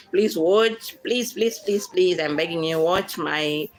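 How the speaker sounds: begging viewers in real earnest; pleading. Real, not acted. Vlogger begging viewers to watch her channel, pleading. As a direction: beg them, please after please. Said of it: "pleading, guys".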